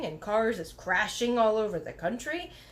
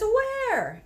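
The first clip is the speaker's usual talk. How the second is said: high, louder "Where?"; calling out; 12 semitones higher, 6 dB louder than usual. A narrator's reading. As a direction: call back, puzzled. Mother calling back.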